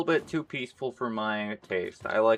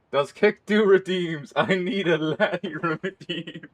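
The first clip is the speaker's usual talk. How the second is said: higher, slow Scottish lilt; mock Scottish voice; 7 semitones higher, 3 dB louder than usual. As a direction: ask it in a playful Scottish accent. Speaks in a put-on voice.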